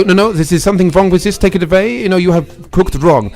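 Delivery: put-on cliched German accent, v for w; mock German accent, disapproving. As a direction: play a fault-finding German stereotype. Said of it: "German people, the cliche is that they'll go".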